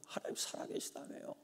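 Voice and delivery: soft unvoiced whispered plea. Pastor's exhausted prayer to God, whispered. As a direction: breathe the words out, spent. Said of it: "막 밟아요".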